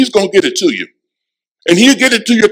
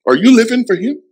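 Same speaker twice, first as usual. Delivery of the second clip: searching question; 5 semitones higher, faster than usual. Acted. Repeated challenge to congregation.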